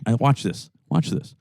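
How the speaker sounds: plain newsreader tone with no Brooklyn accent; neutral no-Brooklyn accent. Shown as a demonstration. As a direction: drop the Brooklyn accent completely. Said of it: "here I am talking like I'm from Brooklyn".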